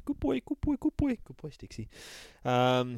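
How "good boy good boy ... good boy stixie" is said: put-on much higher, sing-song "Good boy" to a pet; doggy baby talk. Narrator cooing at the beast, very high pet talk. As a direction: coo "Good boy" like soothing a big dog. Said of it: "says the narrator".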